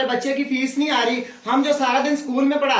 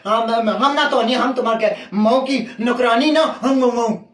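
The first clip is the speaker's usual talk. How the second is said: complaining maid; 3 semitones lower than usual. Acted. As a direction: scold them in a thick rural dialect. Maid threatens and rants back.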